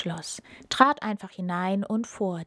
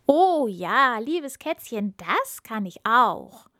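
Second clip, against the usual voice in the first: flattered; 3 semitones higher, 4 dB louder, slower than usual. Acted. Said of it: "freute sich über die schmeichelnden Worte".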